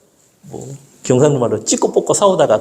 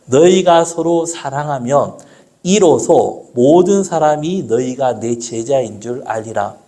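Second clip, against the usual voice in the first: scripture reading; 3 semitones lower than usual. Acted. Reads John 13:35.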